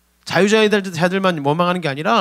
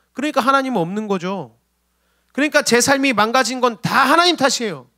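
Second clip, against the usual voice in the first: high-pitched whining at God; acted resentful complaint; 6 semitones higher than usual. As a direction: imitate a believer demanding what was promised. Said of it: "이게 원망이라는 겁니다".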